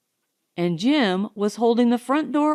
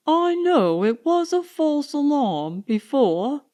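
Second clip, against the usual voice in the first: patient; 5 semitones higher than usual. Acted. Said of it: "he explained patiently".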